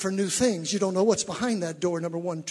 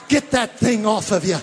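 usual speaking voice

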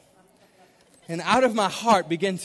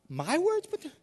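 high-pitched, softer retold disbelief; incredulous; 9 semitones higher, 5 dB quieter than usual. Preacher retells his reply to God, incredulous. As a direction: question it in a squeaky-high, taken-aback voice.

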